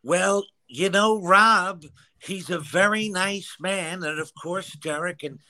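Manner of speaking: lightly voiced slow announcer; a hint of the stadium announcer, drawn out; Dan Baker. Host asks for Dan Baker, slow mock announcer voice. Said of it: "Give me a little Dan Baker".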